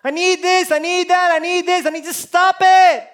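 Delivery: hammed-up irritated parent; a fed-up parent's mock outburst; mock exasperated parent. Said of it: "I get sick of my kids asking".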